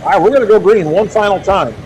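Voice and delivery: booming arena announcement; tractor pull announcer. Real, not acted. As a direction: hype the final hook to the grandstand. Announcing final class hook.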